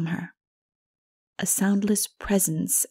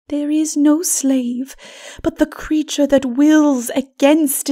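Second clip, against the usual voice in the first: calm, then rising higher and louder; gentle wise woman; 8 semitones higher, 7 dB louder, slower than usual. Acted. Mara to Lilith, rising higher on her challenge. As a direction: answer steadily, then climb to the question.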